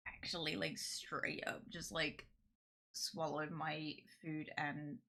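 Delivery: hiccuping between words; talking through hiccups. Real, not acted. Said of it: "now I got the hiccups".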